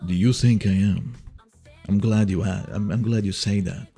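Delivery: ordinary talk, nothing marked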